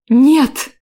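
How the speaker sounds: high loud cry; loud piercing refusal. Acted. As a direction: shout no, pulling away. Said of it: "воскликнула я".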